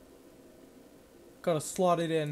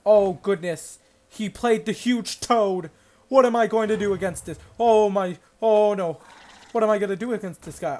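loud, hammed-up panic, higher pitch; mock panic; 4 semitones higher, 9 dB louder than usual. Gamer yelling at the opponent's huge toad in mock panic. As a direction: shout as if the toad will crush you.

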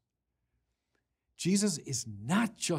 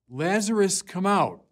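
higher, louder ringing call of Lazarus's name; loud command; 6 semitones higher, 9 dB louder than usual. Acted. Jesus calls Lazarus from the tomb, loud commanding shout. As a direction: command the dead man out of the tomb. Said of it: "in a loud voice".

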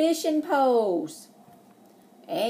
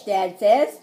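bright storybook read-aloud; lively picture-book narration; reading to children; 3 dB louder than usual. Acted. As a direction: read it like story time for little kids. Teacher reads picture book aloud.

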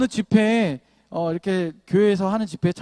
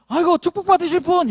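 higher, louder sing-song blessing; mock cheerful greeting; 9 semitones higher, 6 dB louder than usual. Pastor hailing a driver who cuts in, in a loud, cheery mock blessing. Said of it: "이렇게 인사하는 거예요".

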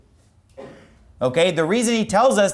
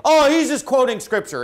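raised, higher-pitched mimicry of objectors; mimicking objectors; 7 semitones higher, 4 dB louder than usual. Preacher voicing those who explain it away, mimicking. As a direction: quote the doubters in a higher voice. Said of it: "here's what they say".

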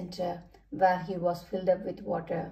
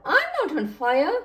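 raised, louder protest; indignant outcry, higher and louder; crying out; 6 semitones higher, 6 dB louder than usual. A narrator's reading. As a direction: object loudly, voice lifted. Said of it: "Edward cried out".

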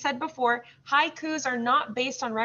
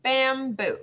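"Bamboo" in two even, stretched beats; measured teaching "Bamboo"; slow; 2 semitones higher than usual. Shown as a demonstration. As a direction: say bamboo slowly, both syllables clear. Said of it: "then we'll say it slow".

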